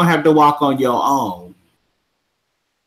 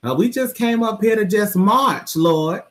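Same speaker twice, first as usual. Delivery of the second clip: put-on old church folks; 6 semitones higher than usual.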